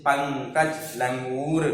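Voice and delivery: पंकज and लंगूर with the dot sounded through the nose; slow पंकज, nasal n held before the k; nasal anusvara. Shown as a demonstration. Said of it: "नाक से होता है". (पंकज, लंगूर में अनुस्वार नाक से)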